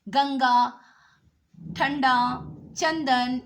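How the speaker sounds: गंगा, ठंडा, चंदन with the nasal clearly sounded. Shown as a demonstration. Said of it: "इसका उच्चारण हमेशा नाक के माध्यम से होता है". (गंगा, ठंडा, चंदन नाक से ज़ोर देकर)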